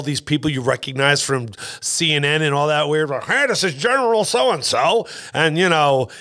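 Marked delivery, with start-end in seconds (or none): 3.2-5.1 mock TV introduction. Voicing a TV introduction of a general.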